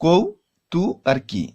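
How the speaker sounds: কৌ তু কি, each syllable split apart with pauses. Shown as a demonstration. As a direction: break কৌতুকী into its three syllables. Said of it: "তিনটি অক্ষর রয়েছে". (শব্দাংশ ভেঙে ভেঙে উচ্চারণ)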